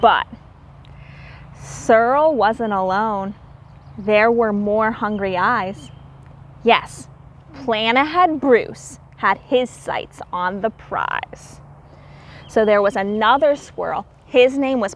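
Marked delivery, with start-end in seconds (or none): 1.6-11.6 lilting read-aloud storybook voice; rhyming story narration. A narrator's reading. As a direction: read the rhymes to the children with a gentle lilt.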